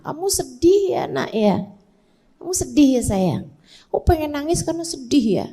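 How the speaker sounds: put-on soft, soothing mother to a sad child; mother soothing her sad child, softly; tender naming of sadness. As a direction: comfort gently while naming the feeling. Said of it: "Kasih tahu, Bu".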